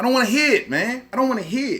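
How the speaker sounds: heated, exasperated, agitated, worked-up repeated ranting. Complaining that the fighter quit, then apologizing: agitated ranting. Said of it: "I'm sorry, I need to calm down".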